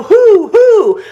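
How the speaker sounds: loud, high "hoo"; imitated owl hoot. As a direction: mimic a storybook owl call. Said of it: "Because owls, they go".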